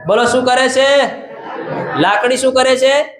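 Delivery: preacher's rousing call; calling out to the crowd. Acted. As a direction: hurl the question out to the crowd and wait for their answer. Preacher quizzing the congregation.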